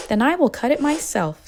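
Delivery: a hen who won't wait for anyone; determined hen. A narrator's reading. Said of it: "said the little red hen".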